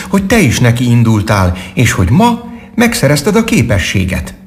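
high-pitched little squirrel character; friendly squirrel. A narrator's reading. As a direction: speak up high as a cheerful squirrel.

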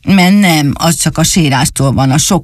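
lightly voiced sulky little boy; sulky doll voice. Dani answers the dog from the tree, lightly voiced sulking. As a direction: mope the words out.

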